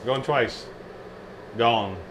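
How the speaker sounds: lightly voiced auction call; auctioneer. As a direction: bang the gavel, going once, going twice. Closing the giveaway like an auction.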